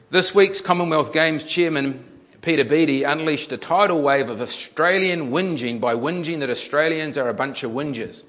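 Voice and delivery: emphatic reading to an audience; article read-aloud. A narrator's reading. Preacher reads a news article to the congregation, emphatic read-aloud. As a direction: read it out with punch.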